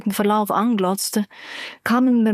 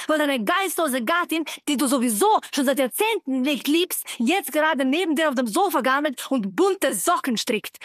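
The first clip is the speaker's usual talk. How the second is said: bitter rage; 5 semitones higher than usual. Acted. Furious typed message voiced.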